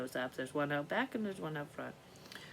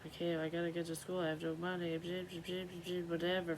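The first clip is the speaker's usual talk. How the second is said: mock freak-out; 6 dB quieter than usual. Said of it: "freaking out".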